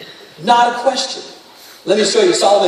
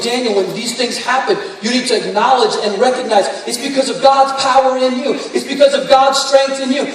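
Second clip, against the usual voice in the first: father's charge. Retold or imitated. Father's charge, voiced with force.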